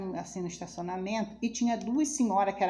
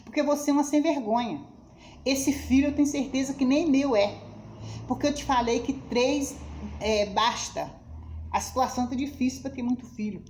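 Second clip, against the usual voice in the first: louder, higher angry tirade; husband scolding; 3 semitones higher, 4 dB louder than usual. Retold or imitated. Husband berating his pregnant wife in the car, angry and loud. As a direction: berate her like the furious husband did. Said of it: "ele veio me cascando".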